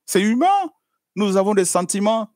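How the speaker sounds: it's human, cried out high; fervent exclaim. Real, not acted. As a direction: lift it up with fervor. Preacher insisting, raised voice.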